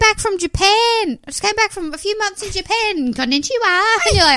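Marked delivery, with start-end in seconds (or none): 0.7-3.8 put-on woo-girl party voice. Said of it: "And she's like".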